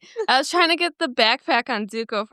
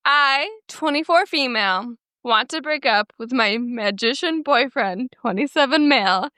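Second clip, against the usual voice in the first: reading aloud. Acted. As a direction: read out an online story headline with deliberate phrasing. Reads a Reddit post aloud.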